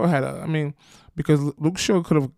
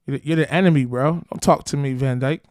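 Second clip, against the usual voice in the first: raised call-out; 2 semitones higher, 4 dB louder than usual. Real, not acted. Yells at Van Dijk.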